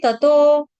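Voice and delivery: ततो with dental t, not retroflex; dental consonant demo. Shown as a demonstration. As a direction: say ततो as ta-to, long o. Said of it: "त तरबूज का".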